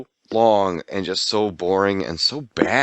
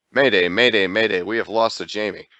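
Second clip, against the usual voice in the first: mayday radio call. Pretend.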